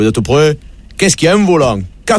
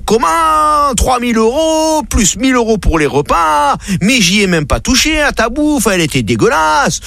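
high indignant protest; outraged customer; 10 semitones higher than usual. Retold or imitated. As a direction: squeal it in outrage over the bill. Maurice s'indigne de la note. (client scandalisé, voix très aiguë)

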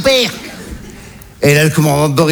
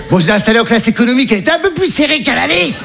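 higher, quicker punchline delivery; excited punchline; 6 semitones higher than usual. Retold or imitated. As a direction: rush the joke up high. Punchline about seat.

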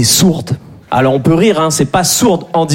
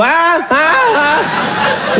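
mimicking girlfriend's hein; 10 semitones higher, much slower than usual. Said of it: "je lui dis".

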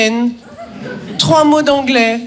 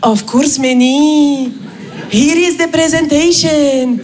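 blissful colleague; much slower than usual. Retold or imitated. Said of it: "Raj me répond".

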